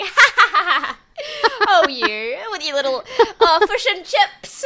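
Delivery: high, loud cackling mockery of a New Zealand accent; mocking laugh. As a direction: laugh down at someone teasingly. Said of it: "'Cause I say something serious and I'm like".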